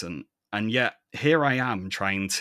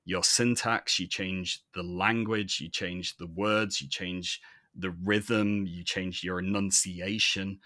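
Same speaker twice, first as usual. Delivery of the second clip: clear voice. Real, not acted. Explaining code switching to fellow podcasters, clear and measured. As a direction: voice of authority, evenly paced list. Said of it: "This is my clear voice".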